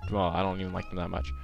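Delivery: loud, swooping mock-British accent; terrible British accent. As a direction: put on a bad, hammy British accent. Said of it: "he got a British accent all of a sudden".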